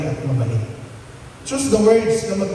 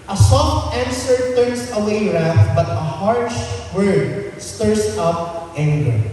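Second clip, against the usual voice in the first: gentle reading; slower than usual. Shown as a demonstration. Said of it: "Speak gently and with grace".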